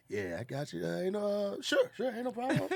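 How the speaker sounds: lazy hood voice. Retold or imitated. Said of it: "that baby is working on you".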